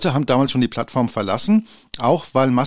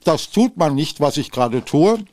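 chewing while talking; words round a bite of cookie; mouth full; 2 semitones higher than usual. Real, not acted. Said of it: "Mit vollem Munde reden".

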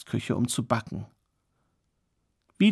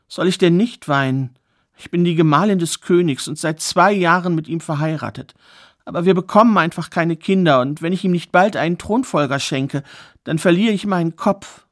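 a hint of a young queen, higher and pleading; lightly voiced distressed queen; 4 semitones higher than usual. Queen tells her plight.

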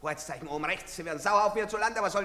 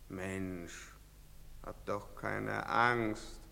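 usual speaking voice

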